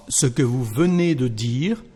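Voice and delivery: every E said; careful French; full French phrase. Shown as a demonstration. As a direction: read ce que vous venez de dire fully. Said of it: "The second part".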